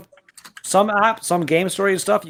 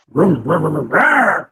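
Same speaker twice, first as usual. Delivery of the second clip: vroom engine noise; 4 dB louder, slower than usual. Shown as a demonstration. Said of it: "Do I sound like a car".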